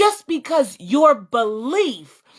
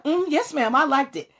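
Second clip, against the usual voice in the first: fake sweet yes; 5 semitones higher than usual. Lying to mom sweetly.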